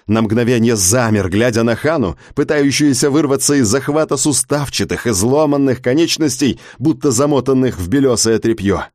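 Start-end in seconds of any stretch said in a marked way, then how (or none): none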